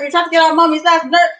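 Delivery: fast, high, loud scolding; exasperated scolding. Real, not acted. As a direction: tell off the naughty cats.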